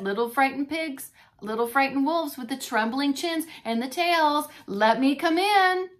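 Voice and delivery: menacing pig at the door; big bad pig.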